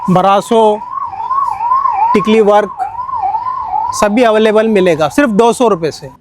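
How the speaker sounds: loud hard-sell shouting; overeager teleshopping pitch. Acted. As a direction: call out the prices loud like a market hawker. Shopkeeper hawking cloth prices.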